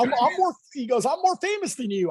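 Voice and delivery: high, bragging mock voice; boasting Ralph impression. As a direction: puff up like a proud star. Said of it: "He's all".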